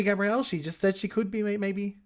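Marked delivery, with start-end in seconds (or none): 0.0-0.4 Gabrielle? called higher and louder with a rising end; calling out. Pretend. Mock-calling Gabrielle across the scene, high and rising. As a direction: call out Gabrielle? up high, questioning.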